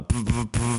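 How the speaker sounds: quick puffed lip noises; mimicked thumps, blown through the lips; imitated noise. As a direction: puff out short bursts for the sound at the door. Imitates noises heard at the door.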